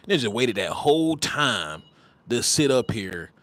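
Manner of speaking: ordinary talk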